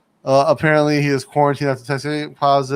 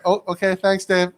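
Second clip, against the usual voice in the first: polite fake agreement; 5 semitones higher than usual. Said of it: "I'm just like".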